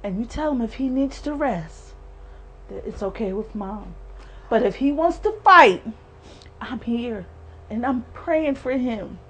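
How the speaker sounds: soft, hushed loving goodbye; mother's soft message to her dying son; tender farewell. Real, not acted. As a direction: gently let him go.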